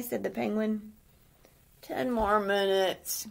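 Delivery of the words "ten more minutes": slow, drowsy grumble from a hare who won't get up; lazy mumbled complaint; sleepy grumble. Acted. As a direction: drag it out like you're half asleep. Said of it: "grumbled the hare".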